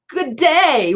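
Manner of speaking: high-pitched, botched Australian greeting; horrible Australian accent. Shown as a demonstration. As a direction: attempt an Australian accent on "good day", "day" left as a plain "day". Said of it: "What a horrible Australian accent I have".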